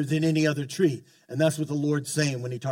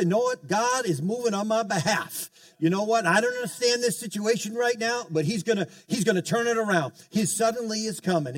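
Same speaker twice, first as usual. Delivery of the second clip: upbeat faith confession; 5 semitones higher than usual. Shown as a demonstration. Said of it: "Just say".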